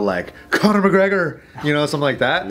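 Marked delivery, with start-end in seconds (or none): 0.5-1.4 put-on Irish accent. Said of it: "I can't help but to channel".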